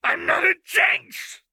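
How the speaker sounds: high, piercing desperate scream. A narrator's reading. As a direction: scream it out with everything left. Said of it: "Jinx pulled in a deep breath and screamed".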